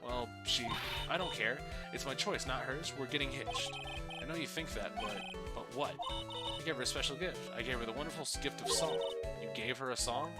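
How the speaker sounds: smug puppet bragging; pompous puppet voice. Acted. Puppet boasts marriage, song.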